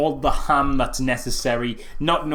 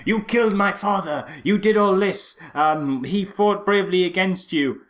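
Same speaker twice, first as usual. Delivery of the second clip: mock dramatic speech; 5 semitones higher than usual. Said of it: "big dramatic speech".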